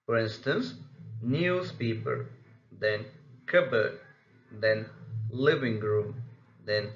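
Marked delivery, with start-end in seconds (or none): 1.2-2.3 "newspaper", slowly, with NEWS leading; first-syllable stress. Shown as a demonstration. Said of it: "the first syllable is stressed". 3.5-4.0 "cupboard" with CUP punched, the ending light; first-syllable stress. Shown as a demonstration. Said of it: "the first syllable is stressed". 5.3-6.2 "living room" with LIV leading, room lighter; first-syllable stress. Shown as a demonstration. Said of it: "the first syllable is stressed".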